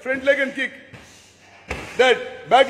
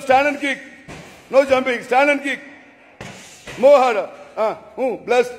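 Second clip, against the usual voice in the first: loud commands, raised pitch; shouting orders over battle; 3 dB louder than usual. Real, not acted. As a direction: push them to kick harder. Coach drilling kicks.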